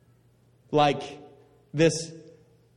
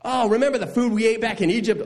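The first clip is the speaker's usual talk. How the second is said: higher, quickened mock reminiscing; nostalgic Israelites; 8 semitones higher, faster than usual. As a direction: play the grumblers pining for Egypt. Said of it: "And they go".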